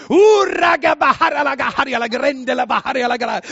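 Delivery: loud ecstatic tongues; speaking in tongues. Retold or imitated. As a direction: pour out glossolalia. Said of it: "talade i tungor". (högljutt tungotal i extas)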